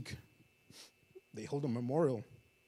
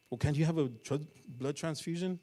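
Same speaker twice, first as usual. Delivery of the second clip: desperate plea; 6 semitones higher, 7 dB louder than usual. Acted. Father pleads with the doctor.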